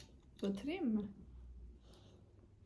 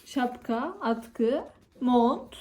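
put-on talking to a baby; 2 semitones higher, 6 dB louder, much slower than usual. Listing clothes to toddler, building.

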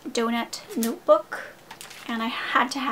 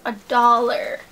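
"dollar" punched louder in amazement; stress on dollar; 7 dB louder than usual. Real, not acted. Vlogger marvelling at the cheap flowers, stressing "dollar". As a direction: hit the word "dollar" hard.

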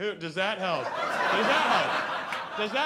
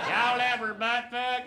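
Southern accent. Shown as a demonstration. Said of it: "say butt fuck with an accent".

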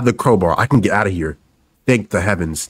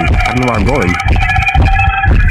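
slow, stretched, far-off moan; slow, wailing version of the repeated line; drawn-out wail; 5 dB louder, much slower than usual. Real, not acted. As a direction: drag the line out in a long whine.

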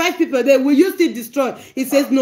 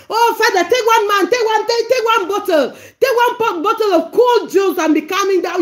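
mock Moses scolding God. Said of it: "Moses called God to his senses".

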